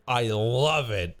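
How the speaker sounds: excited option read; enthusiastic. Shown as a demonstration. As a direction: gush over the fedora. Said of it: "Do we love fedora".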